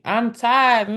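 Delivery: whiny plea to tap out; begging to be let off; pleading to stop. Retold or imitated. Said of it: "faces or gestures that say".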